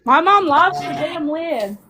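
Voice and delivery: talking around a mouth guard; words slurred by a mouthguard; wearing a mouthguard. Real, not acted. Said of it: "I've got a mouth guard".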